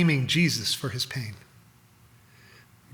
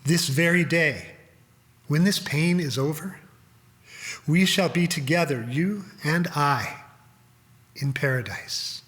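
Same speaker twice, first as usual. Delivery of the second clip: kind voice. Acted. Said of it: "but his voice still kind".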